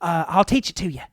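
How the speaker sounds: eager to share her secret recipe; friendly rival brewer, lightly voiced.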